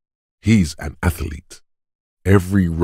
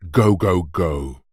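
urging on; slower than usual. Acted. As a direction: egg them on like a coach. Egging on, barking training orders.

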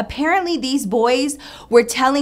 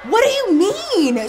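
high, drawn-out questioning call; confused mock yell; 8 semitones higher, slower than usual. Girlfriend confused over blasting music, high mock yell. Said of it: "And she was like".

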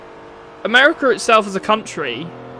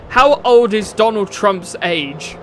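mocking quote; slower than usual. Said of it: "the most stupid and grammatically incorrect sentence".

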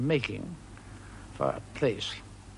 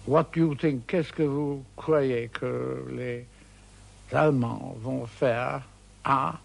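gallant schoolboy French. Retold or imitated. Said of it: "started off gallantly in French".

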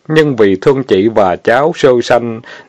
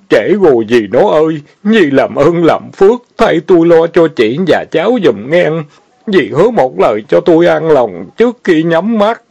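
dying words; 5 semitones higher than usual. Acted. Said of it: "miệng sùi bọt mép nói".

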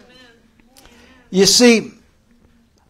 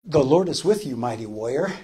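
quiet angel voice; 3 semitones lower, 6 dB quieter, faster than usual. Acted. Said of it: "the angel of the Lord spoke to Gideon, and he said".

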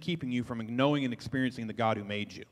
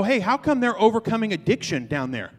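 amazed onlookers; 6 semitones higher, 5 dB louder than usual. Acted. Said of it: "the world will wake up and go".

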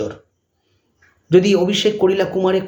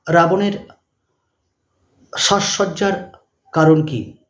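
dictating; slower than usual. Shown as a demonstration. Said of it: "dash দিয়ে লিখবে".

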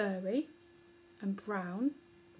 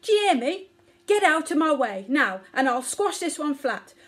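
put-on a mother bellowing to protect her child; furious scream; 5 semitones higher, 7 dB louder than usual. A narrator's reading. Omar threatens the mouse while screaming at her son. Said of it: "screamed Omar".

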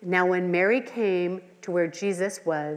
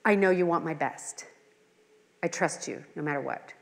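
trusting surrender; 3 semitones lower than usual. Retold or imitated. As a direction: settle into gentle, humble faith. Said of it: "What posture do you have to God?".

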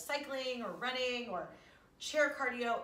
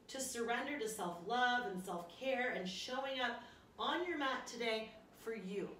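guided relaxation. Acted. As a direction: ease them into rest gently. Closing relaxation guidance.

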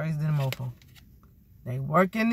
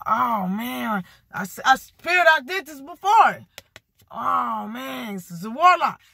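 raised, whiny complaint of a losing opponent; a hint of a defeated warlock moaning; mock frustrated warlock; 4 semitones higher, 4 dB louder than usual. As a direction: play the sore loser who keeps missing.

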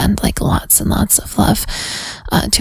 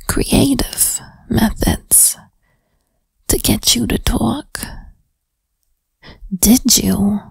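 put-on whispered interrogation with a New Jersey-ish accent; teasing detective grilling a suspect, New York accent. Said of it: "my accent even went a little bit more, like, New York, New Jersey-ish".

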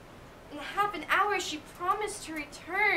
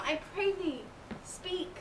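pleading softly; 6 dB quieter than usual. Acted. Juliet begging nurse for news.

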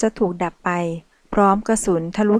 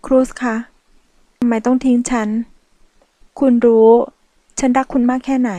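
tearful plea; 3 semitones higher, 5 dB louder than usual. Acted. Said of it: "ไม่จำเป็นต้องกลั้นน้ำตา".

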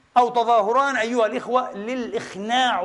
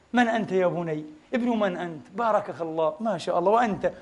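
put-on soft, lower, tender questions to a child; gentle kind voice; 4 semitones lower, 4 dB quieter than usual. Preacher voicing the Prophet gently asking a child his name. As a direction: speak softly as to a small boy. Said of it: "النبي يجلس هكذا ويبدأ يتكلم".

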